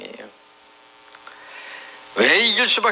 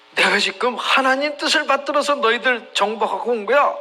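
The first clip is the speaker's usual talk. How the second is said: higher-pitched, acted swagger; cocky boast; 5 semitones higher than usual. Envoy claims God sent him to conquer, cocky and high. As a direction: boast as a presumptuous invader. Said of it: "까불고 있는 말을 하는".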